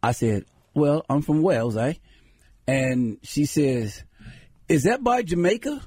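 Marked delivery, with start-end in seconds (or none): 0.7-1.9 lightly put-on English accent. Joker tells lady he is from Wales, light English accent. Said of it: "I would do this English accent". 4.7-5.8 higher, innocent question; puzzled lady. Retold or imitated. Lady asks about Wales, higher puzzled mock voice.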